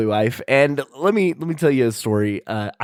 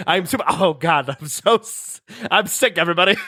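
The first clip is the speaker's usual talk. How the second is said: announcer voice; 6 semitones higher than usual. Acted. Future Derek announcer voice.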